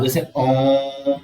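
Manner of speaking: ओम drawn out long and slow, the vowel held like a chant; prolonged om. Shown as a demonstration. Teacher to class, showing a prolonged vowel, ओम held long and slow. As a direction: stretch ओम far past a long vowel. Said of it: "उन्हें कहा जाता है प्लुत स्वर".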